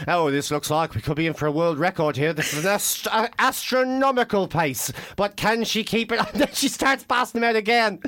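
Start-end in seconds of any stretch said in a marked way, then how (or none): 0.1-6.2 mock commentator. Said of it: "they were going like".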